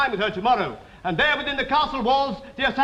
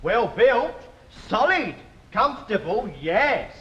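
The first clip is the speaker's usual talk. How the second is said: lower, simpering courtly flattery; fussy tailor; 5 semitones lower than usual. Acted. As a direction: fawn over his majesty's figure.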